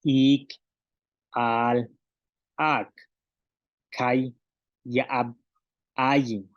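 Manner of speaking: solo las palabras mayas, una por una y bien separadas; pronunciación maya. Shown as a demonstration. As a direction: cortar cada palabra con la glotal, "Ik", "ak". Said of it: "solamente las palabras del maya". (maestra repite las palabras mayas para que la clase imite)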